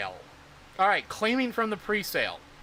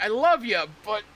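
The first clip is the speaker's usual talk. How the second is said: exasperated mama; 2 semitones higher, 4 dB louder than usual. Retold or imitated. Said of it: "like a mama dealing with their".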